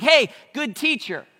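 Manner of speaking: high, slow, casual mock greeting; flippant greeting. The young ruler casually addressing Jesus, high and flippant. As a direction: toss it off too casually. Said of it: "he's like".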